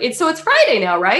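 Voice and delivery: high, puzzled question; confused. Retold or imitated. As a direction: sound lost and unsure of the day. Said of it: "I was like".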